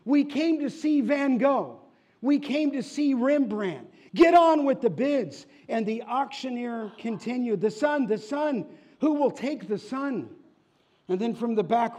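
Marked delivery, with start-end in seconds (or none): 0.0-5.5 high, loud, fed-up yell; angry shout. Acted. An angry bidder shouts at the auctioneer, high and loud. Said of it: "And another shouted". 7.6-10.3 higher, louder insistent calling out; auctioneer's call. Acted. The auctioneer insists to the crowd, higher and louder.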